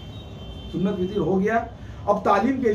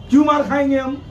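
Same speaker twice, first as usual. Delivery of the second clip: raised, a little louder and fierce; indignant question; 3 semitones higher, 3 dB louder than usual. Real, not acted. Cleric demanding why he should take a beating, raised and fierce.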